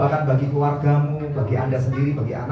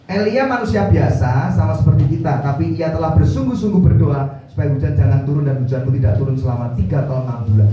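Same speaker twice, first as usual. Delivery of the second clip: scripture reading; 2 semitones lower, 3 dB louder than usual. Acted. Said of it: "Yakobus lima ayat tujuh belas".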